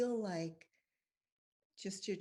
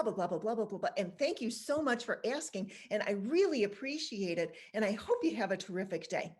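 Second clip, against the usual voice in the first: effusive comeback; 3 dB louder than usual. Shown as a demonstration. Continues modelling the effusive comeback.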